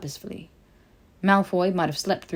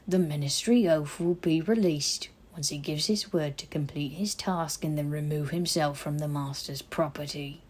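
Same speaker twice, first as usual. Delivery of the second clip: put-on a disapproving old elf keeping order; stern house elf; 2 semitones lower than usual. House elf figure voiced.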